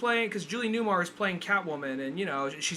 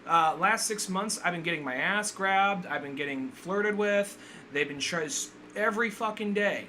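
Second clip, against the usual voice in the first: higher, lightly voiced Harley complaining; a hint of Harley's whiny rant; imitating Harley Quinn; 4 semitones higher than usual.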